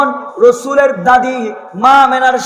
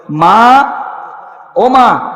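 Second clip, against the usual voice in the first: louder, calling out to daughter-in-law from a distance; calling from afar; 4 dB louder than usual. Acted. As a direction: call gently from outside the door. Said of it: "এরকম করে দূর থেকে বলে".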